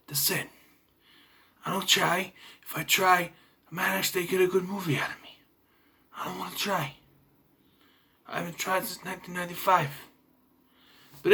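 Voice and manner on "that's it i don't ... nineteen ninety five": mock a lazy action star barely trying, hushed; Steven Seagal. Mocking the actor's lazy delivery to viewers, hushed whisper. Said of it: "He talks like this".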